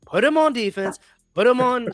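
high, loud insistent demand; excited rant. Real, not acted. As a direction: push it hard, fired up. Ranting about special teams player.

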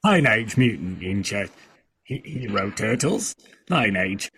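halting try at a British accent; attempted British accent. Shown as a demonstration. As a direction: try the title in British English. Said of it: "I can't do a British accent".

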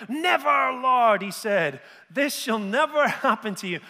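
loud, high cry of refusal; Peter's alarmed protest. Acted. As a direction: blurt it out like a shocked disciple. Peter rebuking Jesus, shouted.

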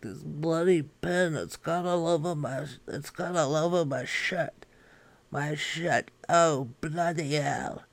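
put-on a flustered royal in a posh British accent, fretting over a stain; King Charles impression. King Charles grumbling at his leaking fountain pen, mock posh British. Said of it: "and he's like".

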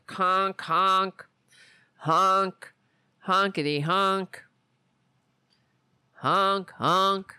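goofy clown horn honks; silly clown. Pretend. Honk sound imitation, clownish.

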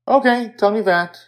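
put-on high, eager child voice; a little girl settling in to hear a story. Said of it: "she says".

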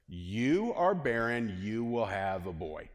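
slow, plain-spoken angelic dictate; blunt pronouncement. Acted. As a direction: state it straight, slowly, without niceties. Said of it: "no, no pretense. No fluff, no ornaments".

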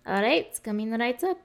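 waitress with a put-on Russian accent; Russian-accented English. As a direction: fake a Russian accent for tips. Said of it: "What does a Russian accent have to".

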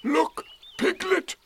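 high, drawn-out call; proud. A narrator's reading. Eeyore calling Piglet to watch, proud. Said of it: "said Eeyore proudly".

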